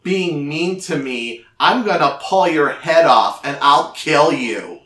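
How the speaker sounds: put-on loud threatening child giant; angry giant girl. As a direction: threaten like a furious giant kid.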